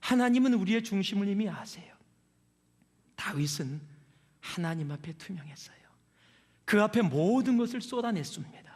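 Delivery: ordinary talk, nothing marked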